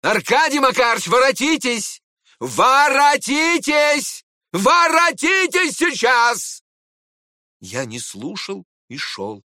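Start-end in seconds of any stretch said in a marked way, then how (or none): 0.0-6.6 building from a loud call to a much higher, slow, loud shout; shouting after him. Acted. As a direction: yell down the hall, each call bigger. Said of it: "он крикнул мне из дверей".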